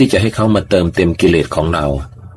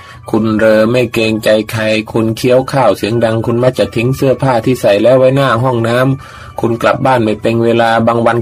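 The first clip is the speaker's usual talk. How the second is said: nagging wife; 5 semitones higher, 4 dB louder than usual. Acted. Wife reads husband's faults list.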